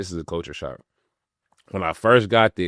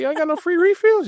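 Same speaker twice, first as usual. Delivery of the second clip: retold disbelief; 7 dB louder than usual. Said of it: "I said".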